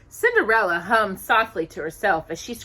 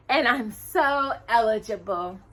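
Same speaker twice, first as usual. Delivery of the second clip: with a sigh; 4 semitones higher than usual. A narrator's reading. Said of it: "Anastasia added with a sigh".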